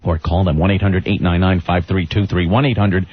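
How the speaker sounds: upbeat radio ad pitch; ad read. Acted. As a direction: sell it like a radio spot. Reads a sponsor ad.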